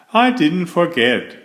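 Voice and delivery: a bright, pleased reassurance; proud of remembering, cheerful; cheerfully. A narrator's reading. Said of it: "he said cheerfully".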